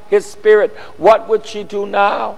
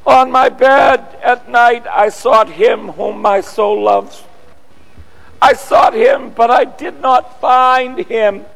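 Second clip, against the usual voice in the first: searching cry; 2 semitones higher than usual. Acted. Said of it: "This is Mary Magdalene's cry".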